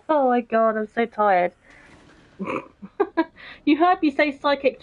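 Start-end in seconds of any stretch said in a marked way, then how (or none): 0.0-0.8 laughing. Real, not acted. Joking about psychic powers.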